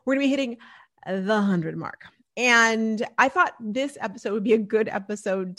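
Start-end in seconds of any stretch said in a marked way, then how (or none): 0.0-2.0 excited whisper. Retold or imitated. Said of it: "I'm like".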